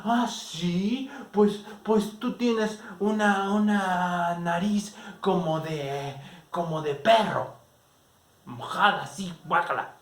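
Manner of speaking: high, loud, slow indignant comeback; childish retort. Retold or imitated. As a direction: hit back with offended disgust. Alma insults back, retold quarrel. (réplica ofendida, aguda y fuerte)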